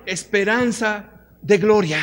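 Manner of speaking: leading the congregation, loud then slow. Shown as a demonstration. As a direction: call the verse out for all to repeat. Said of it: "Dígalo fuerte".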